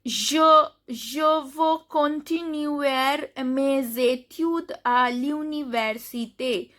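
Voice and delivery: slow, separated reading with "veux" ending on the vowel; "études" with no final S; model French pronunciation. Shown as a demonstration. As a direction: read "je veux" with silent X, word by word. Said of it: "X is not pronounced".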